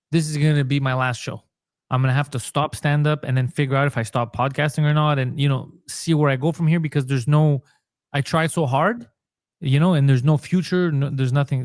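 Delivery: ordinary talk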